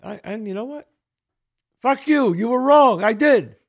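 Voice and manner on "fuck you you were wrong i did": loud and higher, spat back; defiant retort. Real, not acted. Speaking back to his old teacher, loud and defiant. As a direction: tell off the doubter.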